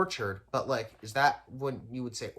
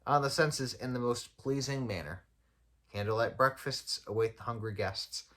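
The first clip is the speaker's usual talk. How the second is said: measured, even reading of a written blurb; read-aloud article. Acted. Podcaster reads an inn's write-up to listeners, measured read-aloud. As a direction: read it out like a brochure.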